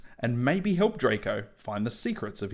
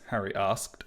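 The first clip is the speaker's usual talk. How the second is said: usual speaking voice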